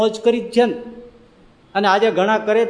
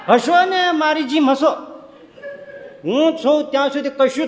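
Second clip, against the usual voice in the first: put-on old man shouting to calm frightened passengers, laughing; confident old uncle; 5 semitones higher than usual. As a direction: boom with cheerful certainty over the storm. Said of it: "ચરોતરી કાકા બેઠા".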